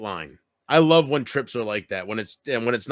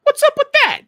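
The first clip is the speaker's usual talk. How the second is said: mock indignation; 9 dB louder than usual.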